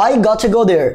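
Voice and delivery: "gotta" said "got-tha" with aspirated T; British "I gotta go there", T not softened. Shown as a demonstration. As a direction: keep a crisp, puffed T in "gotta". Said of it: "এরকম ঠ".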